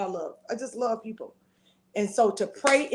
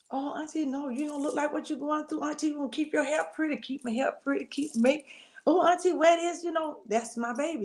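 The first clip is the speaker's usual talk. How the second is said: voicing niece; 5 semitones higher than usual. Voicing her cheerful niece.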